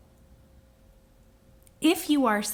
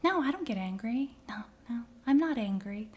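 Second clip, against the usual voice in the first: breathy protest that gives itself away; hushed denial; 5 dB quieter than usual. Retold or imitated. Speaker imitating someone who denies their anger, hushed. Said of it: "Are you someone".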